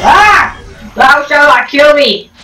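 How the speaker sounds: high, theatrical mock-villain voice; hammed-up villain. A vain villain boasting before the robot kills him, hammed-up and high. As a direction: ham it up like a vain movie baddie. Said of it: "that scary of a laugh".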